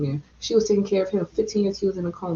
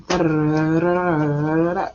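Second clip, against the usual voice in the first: vocal drum roll; 3 semitones lower than usual. Pretend. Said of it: "drum roll, please".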